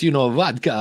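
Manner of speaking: lightly put-on Russian accent; a quick hammy Russian accent. Shown as a demonstration. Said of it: "that was a horrible Russian accent".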